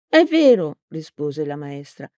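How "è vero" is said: put-on higher old lady voice, reproachful; a lightly voiced old woman accusing; stern old teacher. A narrator's reading. Old teacher accusing Peppone, mildly stern.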